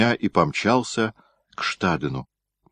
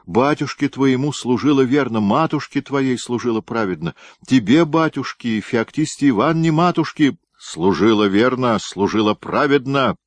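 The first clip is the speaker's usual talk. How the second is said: Gryaznoy mimics the old housekeeper, a bit higher; sneering parody of a whining old woman; mocking mimicry; 4 semitones higher, 3 dB louder than usual. Gryaznoy mocks the housekeeper's pleading words. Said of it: "передразнил её Грязной".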